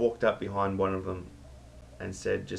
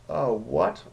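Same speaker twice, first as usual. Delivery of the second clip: higher and louder, caught off guard; shocked outburst; 7 semitones higher, 7 dB louder than usual. Retold or imitated. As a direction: blurt it out in disbelief. Darren shocked at Marty's news.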